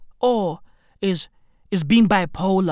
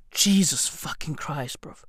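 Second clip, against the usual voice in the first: hushed whispered curse; exasperated whisper; 8 semitones lower, 9 dB quieter than usual. Real, not acted. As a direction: breathe the curse under your breath. Exasperated aside.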